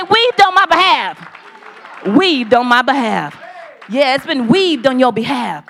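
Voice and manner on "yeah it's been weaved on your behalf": shouted affirmation. Real, not acted. Preacher shouts the blessing back to the congregation. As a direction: proclaim it out over the room.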